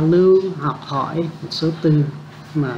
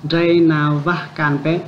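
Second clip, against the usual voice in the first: slow repeat; slower than usual. Shown as a demonstration.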